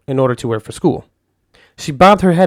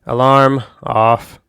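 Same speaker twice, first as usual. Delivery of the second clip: commanding; much slower than usual. Acted. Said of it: "I commanded".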